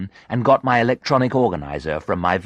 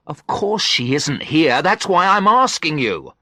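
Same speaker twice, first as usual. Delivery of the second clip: raised, frantic narrated shout; 9 semitones higher, 5 dB louder than usual. A narrator's reading. Husband shouts at his wife's friend, frantic. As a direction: snap it out at the friend. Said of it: "I shouted".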